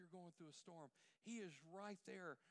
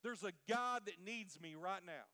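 louder, resolute declaration; determined Jesus; 3 semitones higher, 9 dB louder than usual. Retold or imitated. Jesus telling the disciples nothing stops him, forceful. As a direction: declare it with full conviction. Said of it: "And he said".

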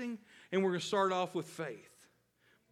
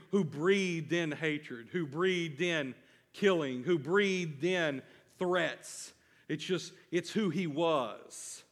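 preaching; slower than usual. Acted. Preacher repeating for emphasis.

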